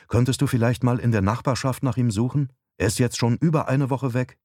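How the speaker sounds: a hint of a concerned wife; wife, requesting. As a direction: ask a favour as the wife. Narrator voices wife requesting.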